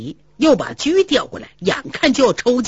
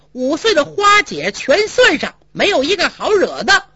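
more heated; 4 semitones higher than usual. Acted. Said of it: "他胡搅蛮缠更急了".

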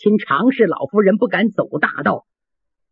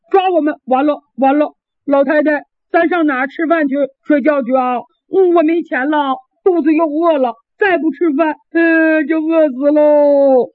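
higher, whining lad, dragging out 就饿死喽; a big boy whimpering about hunger; 4 semitones higher than usual. Acted. Lad frets to the old lady about food, in whining tears. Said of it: "康平哭了".

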